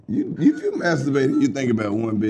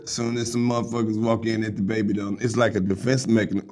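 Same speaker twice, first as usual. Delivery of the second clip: normal talking voice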